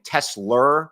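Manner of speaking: "Tesla" said the New York way, as the viewers mocked; his own New York accent on "Tesla". Shown as a demonstration. Owning up to viewers who mocked his New York "Tesla". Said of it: "it's my New York accent".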